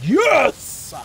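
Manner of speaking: triumphant yell; excited cheer. Real, not acted. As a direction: cheer it loud and high. Found the red glyph.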